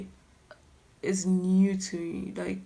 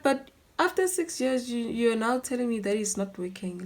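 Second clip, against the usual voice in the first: incredulous protest; 3 semitones higher, 4 dB louder than usual. Retold or imitated. Acted protest at breakup.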